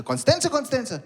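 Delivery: high incredulous repeat; mocking disbelief. Call centre agent making fun of caller's suburb, incredulous. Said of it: "at the call center making fun of me".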